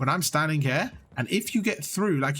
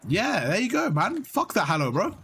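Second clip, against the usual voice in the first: voz alegre; excited approval; 4 semitones higher than usual. Real, not acted. Cheers student's joke.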